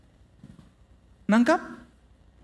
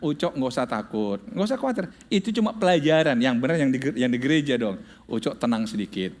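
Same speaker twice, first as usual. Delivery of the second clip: soothing mother; 9 semitones lower than usual. Retold or imitated. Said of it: "Mama kata".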